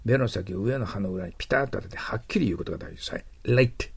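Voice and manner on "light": "Light" with a deliberately overdone L; tongue pressed hard behind the teeth for "Light"; exaggerated L. Shown as a demonstration. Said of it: "ちょっと、あの、異常な感じですけど".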